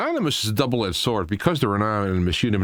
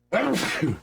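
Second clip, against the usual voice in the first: sneeze-like cough; 10 semitones higher than usual. Real, not acted. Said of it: "Okay, we're gonna sneeze now".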